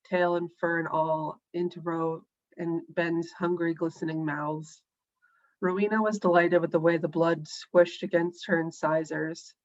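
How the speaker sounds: steady, deliberate reading voice; story narration. A narrator's reading. An author reading her story to the listeners, calm narration. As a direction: lay out the feral feast evenly and clearly.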